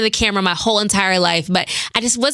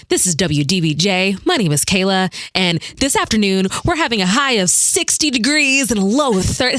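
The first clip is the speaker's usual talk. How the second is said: news anchor voice. Shown as a demonstration. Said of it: "do it one more time in the clear".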